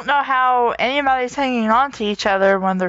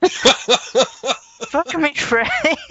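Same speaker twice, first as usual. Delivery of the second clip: mock cry; 3 semitones higher, much slower than usual. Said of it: "Luke cried".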